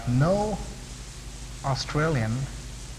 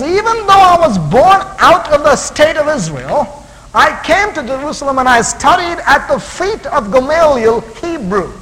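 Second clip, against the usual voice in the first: emphatic proclamation; 9 semitones higher, 8 dB louder than usual. Acted. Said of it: "But he says".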